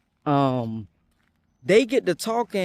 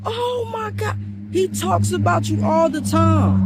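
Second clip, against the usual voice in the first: put-on much higher, louder gushing girly voice; mock high-pitched gushing; excited girlfriend impression; 12 semitones higher, 4 dB louder than usual.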